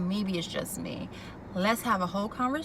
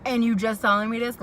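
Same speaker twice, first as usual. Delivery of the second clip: indignant quote; 2 semitones higher, 6 dB louder than usual. Retold or imitated. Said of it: "And she's like".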